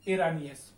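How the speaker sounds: ईरानी एस said as iranis; ईरानी एस run together as one word; teacher models ईरानी एस; Spanish plural demo. Shown as a demonstration. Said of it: "अब इसका जो उच्चारण रहेगा".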